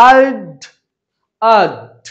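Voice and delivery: I'd said as one short contracted syllable. Shown as a demonstration. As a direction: clip it down to I'd. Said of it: "যদি উইক ফর্মে বলি".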